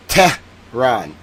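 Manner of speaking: Tehran pulled apart, "TEH... rahn", dropping at the end; mockingly over-stress "Tehran" on the wrong syllable; low, emphatic, broken-up "TEH... rahn"; deliberately wrong stress. Shown as a demonstration. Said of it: "make it very emphatic on the wrong syllable".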